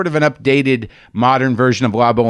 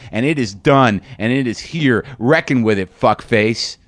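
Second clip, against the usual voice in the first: a painting yelling at you to wake up; lightly voiced painting, urgent and insistent; the painting speaking. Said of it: "That's what that was saying to me".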